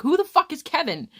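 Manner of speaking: high, loud mock-outraged question; retold exasperated disbelief. Retold reply, escalating disbelief.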